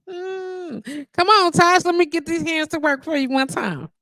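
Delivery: high, bright call to a friend; excited welcome. Real, not acted. Streamer calling Tosh in for a session, excited. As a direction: pull her in with an excited hello.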